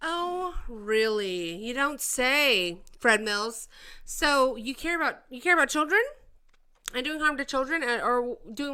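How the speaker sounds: mock surprise, dripping sarcasm; sarcastic. Streamer mocking the senator's claim to care, sarcastic. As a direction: pretend to be impressed, clearly not.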